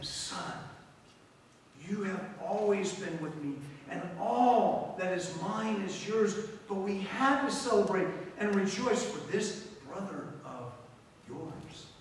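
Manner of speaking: calm the angry son gently; gentle father. Acted.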